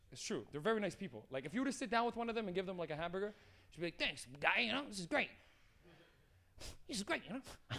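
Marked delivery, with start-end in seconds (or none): 3.9-7.7 odd, abnormal, off-kilter way of talking. Retelling a crackhead thanking someone for a hamburger: imitating a crackhead's weird way of talking. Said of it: "have a weird, like ... a normal way of talking".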